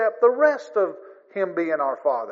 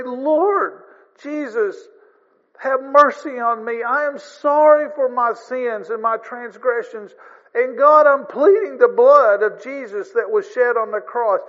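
pleading prayer; 4 semitones higher, 5 dB louder than usual. Retold or imitated. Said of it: "When you come and say".

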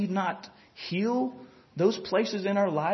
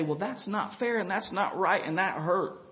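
pouting; 6 dB quieter than usual. Retold or imitated. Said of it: "wanna go pout about it".

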